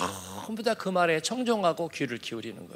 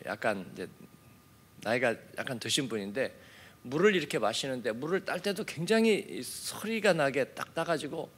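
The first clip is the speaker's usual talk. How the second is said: usual speaking voice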